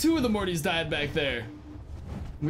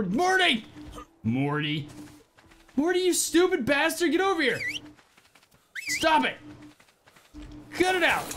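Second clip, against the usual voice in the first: exasperated yelling; 8 semitones higher than usual. Real, not acted. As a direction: yell at the stupid pet. Yelling at pet.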